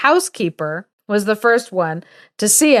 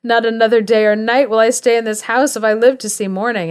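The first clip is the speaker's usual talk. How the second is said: mock scream; 3 semitones higher than usual. Servant girl fleeing John Connor's ghost, mock screaming. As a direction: raise the pitch in acted alarm, without truly screaming. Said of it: "she starts screaming".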